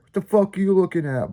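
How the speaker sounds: high, quick imitation of indignant yelling; mock yelling. Friend retold confronting staring deer, mock yelling. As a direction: challenge them in a mock yell, without real volume. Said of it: "he's yelling at the fucking deer".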